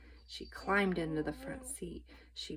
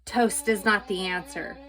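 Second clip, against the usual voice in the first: louder, stubborn grumble; grumbling; 8 dB louder than usual. A narrator's reading. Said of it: "grumbled Eugenia".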